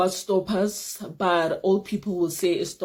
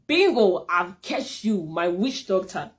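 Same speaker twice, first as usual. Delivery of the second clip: triumphant thought; slower than usual. Retold or imitated. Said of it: "I was like, in my mind".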